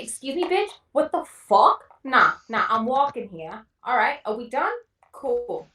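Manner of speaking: brash Jersey Shore caller picking a fight on the street; Jersey Shore accent. Pretend. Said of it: "do a fake phone call".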